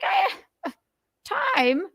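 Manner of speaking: high-pitched mock woman's voice; mimicked lady. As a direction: squeal it as a caricature of her. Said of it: "she's like".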